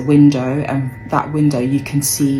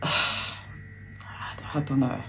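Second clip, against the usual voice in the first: sighed, near-whispered and very slow; real exhaustion, barely voiced; drained sigh; 9 dB quieter, much slower than usual. Real, not acted. Lost for words about dad.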